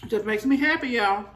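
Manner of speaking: talking with a mouthful of pasta; mouth full. Real, not acted. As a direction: say it through a bite of food, chewing. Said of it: "Sorry about talking with my mouth open".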